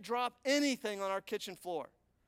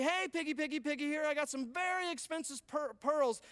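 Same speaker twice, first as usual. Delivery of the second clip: mock pig calling; 6 semitones higher than usual. Preacher mock calls to pigs.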